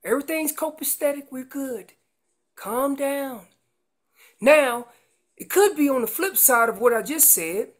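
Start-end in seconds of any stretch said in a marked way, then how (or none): 0.0-3.5 higher, reassuring call back; mother answering. Acted. Mom answering her calf, raised reassuring voice. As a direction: call back that all is fine, pitched up. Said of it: "And she says".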